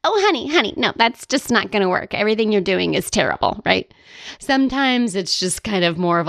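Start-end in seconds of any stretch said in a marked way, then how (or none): 0.0-3.6 a hint of a sassy snob; Karen from Will and Grace. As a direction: dismiss them like a catty socialite. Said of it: "a Karen from Will and Grace".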